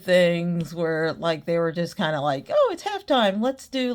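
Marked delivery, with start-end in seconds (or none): 2.5-3.9 high-pitched start, dropping quickly; airy mock suggestion; mock breezy planner. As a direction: imitate a clueless planner's bright idea. Mocks careless old show planners.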